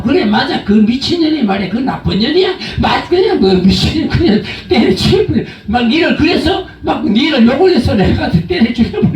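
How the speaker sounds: laughing, heated gossip voice; gossiping agreement. Retold or imitated. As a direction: egg on the angry friend, half laughing. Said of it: "이렇게 같이 막 맞장구 치다".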